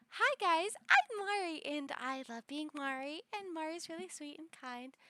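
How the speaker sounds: a lightly voiced sweet girl; Mari voice. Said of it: "Mari I can be".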